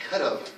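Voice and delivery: COULD'VE run together as "coulda"; reduced could've. Shown as a demonstration. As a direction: say could've as one word, have shrunk to a weak "uh". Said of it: "We say".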